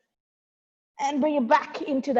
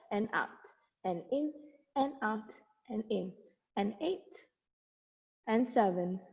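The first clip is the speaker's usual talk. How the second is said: out of breath; 8 dB quieter than usual. Real, not acted. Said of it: "I'm getting out of breath here".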